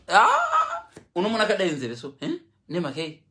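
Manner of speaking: high laughing tease; mock him through a burst of laughter; laughing mockery. Wife teasing husband about his ears, laughing high.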